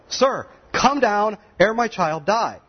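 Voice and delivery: high, slow desperate plea; a father pleading, drawn out and high. Acted. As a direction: beg for your dying child. Desperate father begging Jesus.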